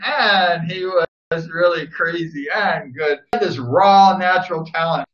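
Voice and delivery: fighting back tears while praising him; choked up. Real, not acted. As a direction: voice catching with tears. Emotional tribute to late rider.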